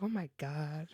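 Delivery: embarrassed mutter. Retold or imitated. Embarrassed under breath.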